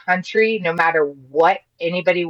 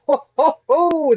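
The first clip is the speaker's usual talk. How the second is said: high, amazed "ho, ho, ho"; amazed exclamation; 11 semitones higher, slower than usual. Retold or imitated. Recalling her first vote, a high amazed exclamation. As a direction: blurt it out in high disbelief. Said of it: "I'm like".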